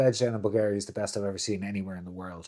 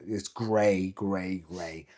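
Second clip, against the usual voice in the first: weary fading repeat; 5 semitones lower, 7 dB quieter, much slower than usual. Acted. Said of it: "grey repeated".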